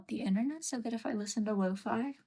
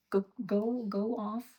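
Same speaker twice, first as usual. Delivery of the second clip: shooing; 4 dB louder, slower than usual. Real, not acted. Shooing the pet.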